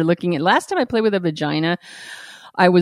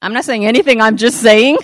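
louder, teasing repeat; mocking echo; 2 semitones higher, 4 dB louder than usual. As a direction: throw his words back, laughing. Echoes his words mockingly.

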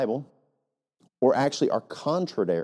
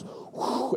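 mock breath blast; 8 dB quieter than usual. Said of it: "And the preacher goes".

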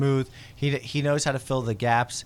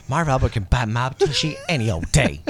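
laughing. Real, not acted. Laughing while joking.

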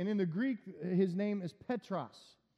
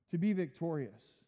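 ordinary talk, nothing marked

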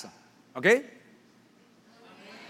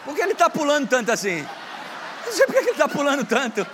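laughing high and loud at the jumping; asking through laughter; 9 semitones higher, 4 dB louder than usual. Real, not acted. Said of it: "Começa a rir". (rindo alto)

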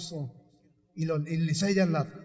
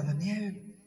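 mildly sorrowful calling, spaced out; understated grief, subdued voice; sad; slower than usual. Acted. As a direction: call out sadly, without force. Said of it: "triste le habla".

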